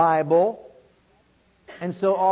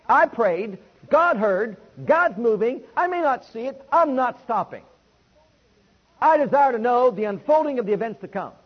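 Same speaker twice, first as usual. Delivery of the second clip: louder, steady declaration of faith; Daniel praying; 3 semitones higher, 4 dB louder than usual. Pretend. Preacher voicing Daniel's steadfast prayer, louder and resolute. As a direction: stand firm and declare it. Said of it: "more like Daniel was".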